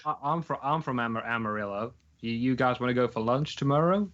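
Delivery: imitating a Texan woman inviting strangers; hesitant go at a Texan accent; bad Texan accent. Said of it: "it's really bad accent".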